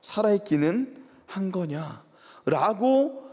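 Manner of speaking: mock the exiles as a scornful foreigner; preacher voicing the pagans' jeer, mildly acted; mocking taunt. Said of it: "즉, 그들이 이렇게 조롱한 거예요".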